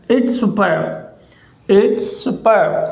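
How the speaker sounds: "it's superb" drawn out slowly; slow model word. Shown as a demonstration. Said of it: "तो हम बोलेंगे".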